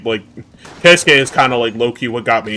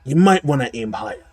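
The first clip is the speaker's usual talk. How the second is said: Taskmaster voice. Retold or imitated. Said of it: "mimicking Steve Bloom's Taskmaster voice".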